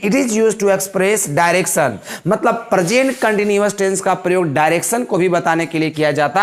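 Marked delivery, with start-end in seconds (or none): 0.0-1.9 teacher dictating the rule with a little laugh; slow dictation with a laugh. Shown as a demonstration. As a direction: dictate the rule very slowly, amused. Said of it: "ऐसे लिखवाते हैं कि".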